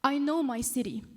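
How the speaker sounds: measured spoken-word reading with long pauses; poem recital. Acted. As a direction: recite your own poem, letting each short phrase land. I'm gonna read it to you.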